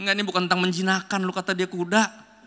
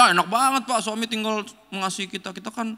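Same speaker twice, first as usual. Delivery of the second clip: teasing, pleased-with-themselves tone, raised up; smug wives; 4 semitones higher than usual. Retold or imitated. Wives boasting to the pastor, smug and playful. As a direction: play the wife who thinks she has it easy. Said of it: "Istri-istri bilang kayak".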